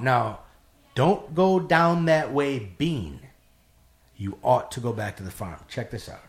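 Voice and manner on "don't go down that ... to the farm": another, solemn voice. Retold or imitated. Narrator replays the lady's warning in a slow, solemn other voice. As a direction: repeat the omen with measured, restrained weight. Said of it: "in another voice".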